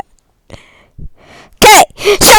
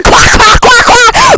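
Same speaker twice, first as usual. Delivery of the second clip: duck quacking; 4 semitones higher, 3 dB louder, slower than usual. Pretend. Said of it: "The Duck".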